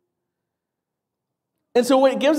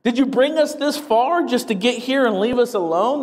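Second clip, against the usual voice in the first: mildly challenging questions, pitched higher; direct honesty; 5 semitones higher than usual. Acted. Psalmist questioning God over being left alone, mildly indignant honesty. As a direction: put it bluntly to God, voice lifted. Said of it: "pretty direct honesty with God to saying".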